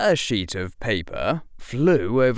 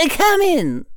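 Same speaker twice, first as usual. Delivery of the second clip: higher, louder, through a closed door; muffled McGonagall; 6 dB louder than usual. A narrator's reading. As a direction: call out from behind a door. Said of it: "said Professor McGonagall's muffled voice".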